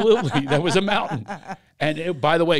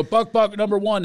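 loud playground call, pitched up; 5 semitones higher, 4 dB louder than usual. Retold or imitated. Kids calling the start of buck buck, loud. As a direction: shout it like a kid starting the game.

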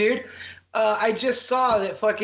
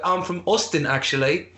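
lightly mimicked British accent; imitated British accent. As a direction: retell it with a hint of British. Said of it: "guy with a British accent".

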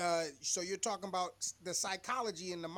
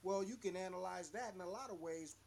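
faint, distant mic; far away; 10 dB quieter than usual. Real, not acted. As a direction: sounds like through a wall. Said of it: "Oh, you sound so far away".

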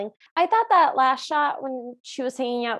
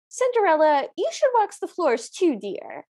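sweetly bossy stepmother imitation; mock stepmother; 6 semitones higher than usual. Retelling, acting the stepmother.

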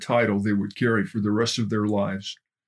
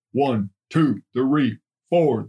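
shouted count, a bit louder; platoon counting; 2 semitones higher, 4 dB louder, much slower than usual. Acted. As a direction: bark the numbers back in unison.

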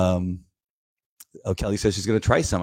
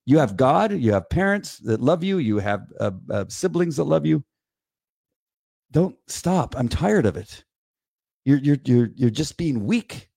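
exasperated tough-love lecture, pitch often raised; retold anger; 4 semitones higher than usual. Parent telling daughter she lets others control her, mildly angry scolding. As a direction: re-enact a frustrated parent's scolding. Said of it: "And I was just so angry".

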